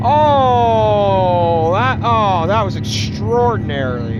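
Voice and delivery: excited. Real, not acted. Awed reaction to smooth takeoff.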